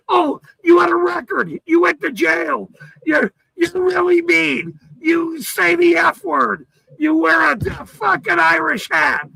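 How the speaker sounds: hammed-up whiny mockery of critics; mocking whiny critics. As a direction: parrot the haters in a whiny half-shout.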